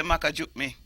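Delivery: Patois phrase Maka juke me said in a Jamaican accent. Shown as a demonstration. Teaching Patois to the host, a Jamaican accent phrase. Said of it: "me say".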